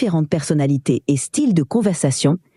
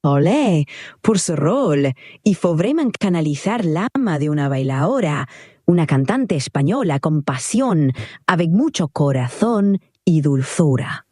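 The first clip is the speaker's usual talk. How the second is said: Spanish dancer. Acted. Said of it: "jouer le rôle d'une danseuse espagnole".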